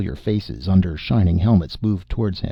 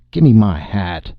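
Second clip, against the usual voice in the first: demanding sheriff; 6 dB louder, slower than usual. Acted. Sheriff demanding his helmet.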